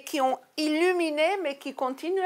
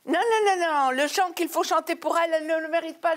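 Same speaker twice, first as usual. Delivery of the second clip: imitated husband's protest, pitched up; insistent refusal; 5 semitones higher, faster than usual. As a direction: cut in with quick, high-pitched objections. Husband retold refusing, acted objection.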